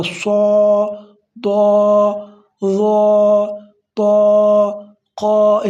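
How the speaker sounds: سو دو ظا طا قا said thick and loud; heavy letters. Shown as a demonstration. Teacher showing students the heavy letters, loud and thick. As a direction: give سو دو ظا طا قا a full heavy sound. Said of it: "ان کو ہم نے پڑھنا ہے موٹا".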